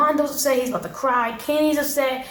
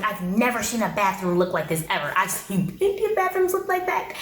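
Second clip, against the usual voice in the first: mock appalled. Kenny faced with a dirty bathroom, mock appalled. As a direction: imitate someone aghast at what they see.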